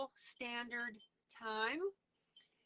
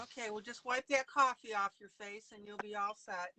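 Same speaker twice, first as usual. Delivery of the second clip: joking through a laugh; laughing tease. Real, not acted. Teasing with laugh.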